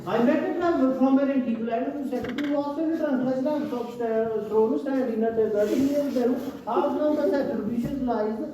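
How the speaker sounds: slow, measured poem reading; slow classroom recitation of a poem. Acted. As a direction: recite it deliberately, line by line. Reads the poem aloud.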